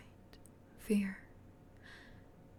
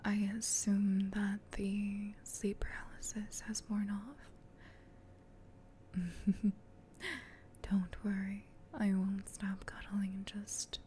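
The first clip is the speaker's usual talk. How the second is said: whispered comforting roleplay. Acted. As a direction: whisper soothingly to someone in your arms.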